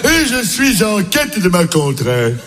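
mock posh. Posh hautain self-introduction.

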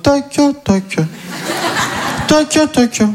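mock street drill. Comedian imagining doing the exercise in the street, weird high voice. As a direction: strange night prowler repeating syllables. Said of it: "j'aille dans la rue, la nuit, normal, en mode".

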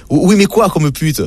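mock cop question. Dédé's punchline, mocking the cop.

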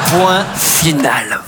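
slow final call; slow dictation. Pretend. Teacher ending the dictation, slow. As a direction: close the dictation deliberately.

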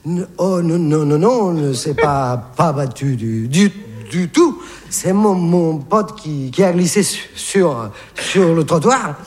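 toothless stammer. Acted. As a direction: stumble over every word. Battered man stammering to the cop. (bégaiement sans dents)

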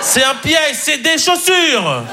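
high warning cry, last word drawn out; mock alarm. Warning that the cake is a trap, mock alarm. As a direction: cry out a comic warning, stretching the end.

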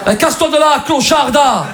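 mock-angry high shout; hammed-up high-pitched insult; rejected flirt. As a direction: yell it like a spurned Marseille flirt. Rejected Marseille flirt turns abusive.

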